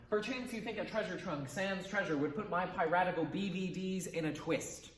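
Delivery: falling end, no question lift; read as a statement. Shown as a demonstration. Teacher reads the question line as a sample, statement-like. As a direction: let IN A TWIST drop like a plain statement. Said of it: "If I said that as".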